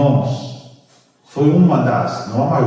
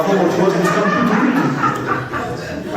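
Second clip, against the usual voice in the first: slow, breathy giggle, higher; laughing; 5 semitones higher, slower than usual. Real, not acted. Preacher teasing the church with the nickname, laughing. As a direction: giggle through the repeated words.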